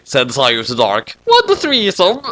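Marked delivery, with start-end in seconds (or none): 1.2-2.2 high shocked. Acted. Shocked reply.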